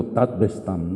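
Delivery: Tatbestand as a rough German "TAHT-beh-stahn"; approximate German pronunciation. Shown as a demonstration. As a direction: say Tatbestand with Spanish vowels, final consonants softened. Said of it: "se pronuncia algo así como".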